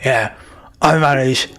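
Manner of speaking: lightly voiced bugbear foreman; bugbear middle manager. Bugbear defends his boys' downtime to the party, lightly in character. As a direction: explain yourself like a matter-of-fact boss.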